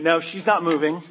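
loud, laughing, fed-up groan; a sister losing patience, laughing in frustration; laughing exasperation. Acted. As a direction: laugh in disbelief that Mary won't budge.

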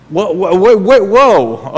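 rising, then falling, stunned whoas; startled whoa. Acted. Preacher to congregation, stopping dead in mock alarm. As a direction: pull up short as if the verse shocked you.

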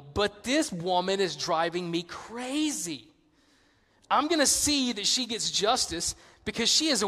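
mildly exasperated, stretching out the key words; lightly voiced fed-up judge. Judge complaining to himself about the widow, mildly exasperated. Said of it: "he said to himself".

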